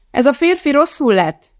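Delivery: high, loud alarmed call. A narrator's reading. Elizabeth calls out to the crowd that a man is ill. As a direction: cry out for help across the foyer. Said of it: "kiáltotta".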